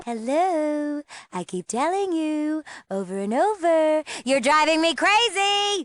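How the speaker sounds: slow, high, drawn-out frustration; sing-out exasperation, pitched high; utterly exasperated. Acted. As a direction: stretch the words out at a hopeless listener. Fed up with repeating herself.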